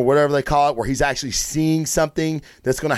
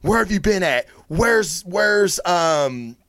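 higher, anxious Lois pleading for answers; panicked Lois; 5 semitones higher than usual. Retold or imitated. Lois frantically asking Bruce where Clark is, higher and anxious. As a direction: play her rising worry as she asks for Clark. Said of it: "she's like".

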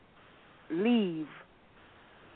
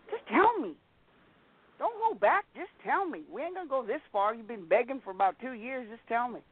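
impatient demand; 4 semitones higher than usual. Retold or imitated. Demanding he reveal the reading.

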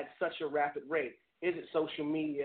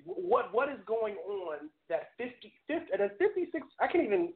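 stumbling over words, tripping up; stuttering; 3 semitones higher than usual. Real, not acted. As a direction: stammer from disbelief. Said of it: "I'm stuttering".

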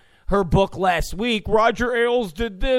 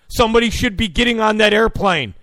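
fast, louder indignant anchor; Wolf Blitzer; 4 dB louder, faster than usual. Retold or imitated. Host mocking a news anchor's complaint, fast and indignant. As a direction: rattle off the outrage like a TV anchor. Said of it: "when Wolf Blitzer goes".

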